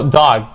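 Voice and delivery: DOG with a long, open vowel. Shown as a demonstration. Teacher correcting the class, long-vowel DOG. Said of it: "It's actually a long vowel".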